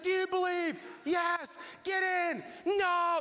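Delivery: loud, high back-and-forth yells; shouting match. Retold or imitated. Walker and man arguing over the wheelbarrow, shouting. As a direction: act both sides of a yelled argument, voice way up.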